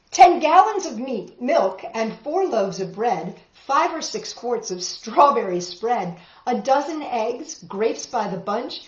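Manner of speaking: rhythmic read-aloud storytelling; story narration. A narrator's reading. Teacher reading a tall tale to the class, rhythmic narration. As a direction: read the rhymes with a lilt for kids.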